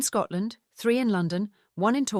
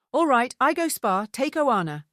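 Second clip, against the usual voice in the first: put-on a touch higher and louder, lightly accented friend; Helena giving in; 6 semitones higher, 5 dB louder than usual. A narrator's reading. Helena agreeing to the spa, brisk and lightly accented. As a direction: concede with a brisk lift, broken English.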